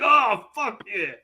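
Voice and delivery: slow, high elated groan; drawn out like pure bliss. Retold or imitated. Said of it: "he's like".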